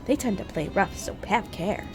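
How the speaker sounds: high, gracious fairy queen voice; a regal sprite sweetly asking a favour; goddess. Acted. Voices a fairy figure pleading.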